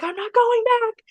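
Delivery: put-on high, slow whine of a teen; mock whiny kid. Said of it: "And he's like".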